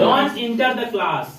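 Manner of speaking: slow, deliberate teacher model; slow classroom demonstration; slow model sentence. Shown as a demonstration. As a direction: lay each word out slowly. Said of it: "मना करना है class में घुसने से".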